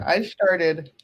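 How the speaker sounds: I started echoed with a mock-flat started; mocking the speech sound; imitating I started; mimicked pronunciation. Shown as a demonstration. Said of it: "What the hell was that?".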